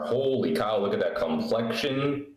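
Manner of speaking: pleased with himself, stretching the last words; slow, showy compliment to himself; smug self-admiration. Real, not acted. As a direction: admire your own face on camera. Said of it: "Why did you say it like that?".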